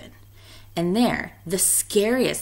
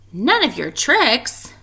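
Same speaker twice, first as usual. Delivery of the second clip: louder, slow monster warning; booming monster; 6 semitones higher, 6 dB louder, slower than usual. A narrator's reading. Teacher reading, the monster warning the witches. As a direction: growl it as a warning. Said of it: "boomed the monster".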